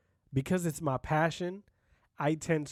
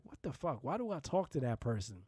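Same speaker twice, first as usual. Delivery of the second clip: quieter, lower grumble to oneself; exasperated muttering; 5 semitones lower, 8 dB quieter than usual. Retold or imitated. Walking away from that person, exasperated muttering. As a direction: mutter it under your breath, fed up.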